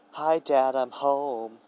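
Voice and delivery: cheeky announcement. A narrator's reading. Deku walking in to bother Aizawa, cheeky announcement. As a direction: sing out a playful hello on arrival. Walks in announcing himself to teacher.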